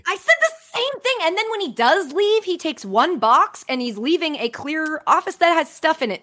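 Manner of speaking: 1 incredulous rant. Real, not acted. Exasperated rant about office.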